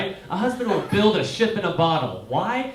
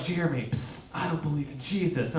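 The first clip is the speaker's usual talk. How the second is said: grandma's secret; 7 dB quieter than usual. Retold or imitated. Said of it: "she was like".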